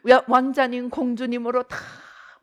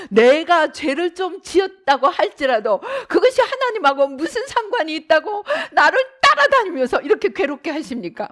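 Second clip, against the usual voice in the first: tearful, louder protest to God; Job protesting; 4 semitones higher, 4 dB louder than usual. Retold or imitated. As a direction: plead bitterly like Job. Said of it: "막 하나님께 항변을 합니다". (하나님께 항변하는 욥의 울먹이는 목소리)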